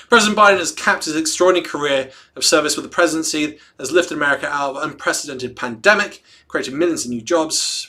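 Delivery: brisk reading of a public statement; statement read aloud with punched openings; formal read-aloud. Acted. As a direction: read out a political tribute. Reads a news statement aloud.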